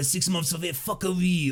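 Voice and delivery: mock, put-on French accent. Redoing a thank-you phrase to show it in a put-on French accent. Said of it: "If I was to do that in a French accent".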